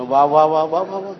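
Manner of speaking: low, distant spirit-like wah wah; possessed woman's low uncanny chant; eerie possessed voice. Retold or imitated. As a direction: voice a jinn through the woman, low and strange.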